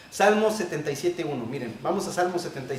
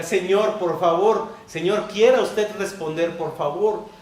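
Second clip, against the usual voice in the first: supplication; slower than usual. Shown as a demonstration. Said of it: "Con súplica".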